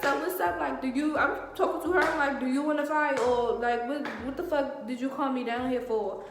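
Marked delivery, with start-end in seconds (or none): 0.0-1.2 high-pitched acted challenge; retold maxing out. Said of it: "So I maxed out". 2.4-6.2 raised-voice challenge, acted out; retold maxing out. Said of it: "So I maxed out".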